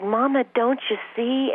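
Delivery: hint of a two-year-old asking mama; toddler voice. Mother voices her toddler daughter.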